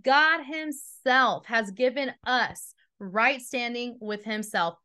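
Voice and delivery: slow it right down, leaning on God; slow, weighty reread. Shown as a demonstration. Preacher rereading for the congregation, slow and weighty. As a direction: let each word land, unhurried. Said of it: "Will you pause for a second and hear that again?".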